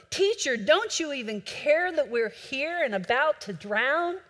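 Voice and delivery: frantic shouting. Acted. Preacher voices disciples waking Jesus, frantic half-shout. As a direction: read it as an alarmed call for help. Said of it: "they wakened Jesus shouting".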